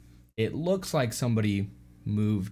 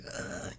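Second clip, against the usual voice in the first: soft strangled "ugh"; imitated stifled scream; 12 dB quieter than usual. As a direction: mimic a scream held down in the throat. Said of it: "trying to quell her scream".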